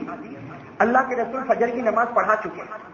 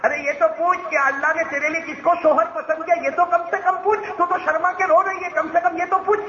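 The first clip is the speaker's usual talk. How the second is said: smiling, coaxing; 9 semitones higher than usual. A narrator's reading. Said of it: "ہمارے نبی نے مسکراتے ہوئے کہا".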